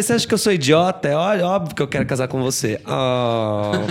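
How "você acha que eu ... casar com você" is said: exasperated yes. Retold or imitated.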